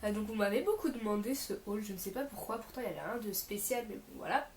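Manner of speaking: sick voice. Real, not acted. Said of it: "je suis désolée pour ma voix, je suis un peu malade".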